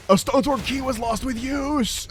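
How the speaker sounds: high, slow, far-off game announcer boom; mock dramatic announcer. Joking to viewers about a meme, mock announcer. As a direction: blare it like a wrestling meme caption. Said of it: "that wrestling meme where people are, like, yelling".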